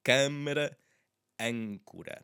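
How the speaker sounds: "câmara" said loudly, closed nasal first syllable. Shown as a demonstration. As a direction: punch the "câ" of "câmara", then "âncora". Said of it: "So one more time".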